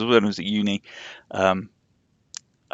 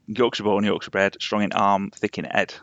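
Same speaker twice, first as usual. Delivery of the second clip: Yorkshire accent. Shown as a demonstration. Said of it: "was gonna do the York".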